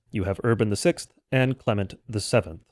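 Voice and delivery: ordinary talk, nothing marked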